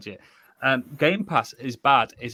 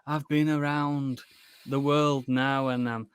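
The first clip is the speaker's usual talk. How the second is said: slow, softer impression of a singer; mock worldly rocker; 5 dB quieter, slower than usual. Podcaster mimicking how the singer talks now, mock worldly rocker. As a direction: lightly put on a languid rock-star voice. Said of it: "he's more like".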